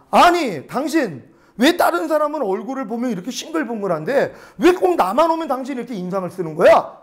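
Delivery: mildly indignant retold complaint; mock scolding. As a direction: imitate an annoyed customer telling someone off. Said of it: "그 야단을 친 거예요". (야단치는 손님을 가볍게 흉내)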